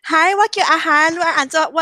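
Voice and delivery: polite hotline greeting in Hokkien; Hokkien customer service voice. Shown as a demonstration. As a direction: play a chirpy call-center agent. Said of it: "福建話customer service的voice在講".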